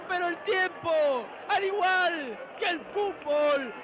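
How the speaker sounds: high, moved commentary; emotional commentary. Real, not acted. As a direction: savour the moment aloud. Emotive post-goal commentary.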